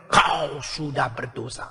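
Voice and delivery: a quiet, grave reproach, drawn out; voice of conscience. Acted. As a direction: conscience rebuking the sinner, low and slow. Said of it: "hati nurani mengatakan".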